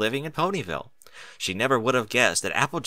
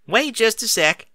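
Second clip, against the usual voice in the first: higher, louder, slow drawn-out halt; stopping him; 12 semitones higher, 5 dB louder than usual. Acted. Applejack stopping Big Mac from escaping, slow and loud. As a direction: hold him back with a drawled call.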